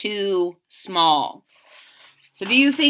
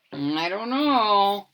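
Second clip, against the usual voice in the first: whisper; 4 dB quieter than usual. Acted. Unsure answer, whispered.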